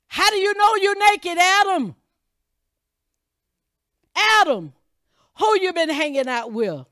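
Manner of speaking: God pleading with his son Adam; pleading call. Acted.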